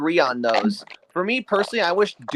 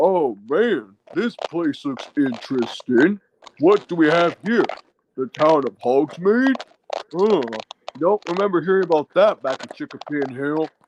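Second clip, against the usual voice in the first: lowered voice with deep southern drawl. Demonstrating his character voices, as the bear visiting Universal: Brer Bear voice. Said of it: "here's for if Brer Bear is at Universal".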